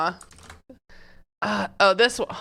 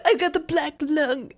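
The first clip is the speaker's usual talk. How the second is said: laughing; 7 semitones higher than usual. Acted. Joke line while laughing.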